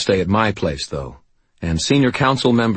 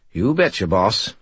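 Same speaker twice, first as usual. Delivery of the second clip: smug; 2 semitones higher than usual. Acted. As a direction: sound very pleased with yourself. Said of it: "his voice was very smug".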